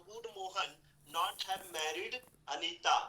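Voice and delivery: slow, deliberate English sentence for the class; slow dictation. Shown as a demonstration. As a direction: lay out each word slowly. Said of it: "इस तरह से आप कई सारे sentence ले सकते हो". (धीरे-धीरे वाक्य बोलना)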